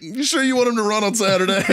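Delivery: high-pitched, drawn-up retold query; mock incredulous question. Sergeant questioning gunny about the Saturday run, mock incredulous. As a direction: imitate yourself doubting gunny's order.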